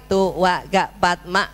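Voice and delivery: counting slowly under the breath. Shown as a demonstration. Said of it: "ngitung dalam hati lima detik". (menghitung pelan dalam hati)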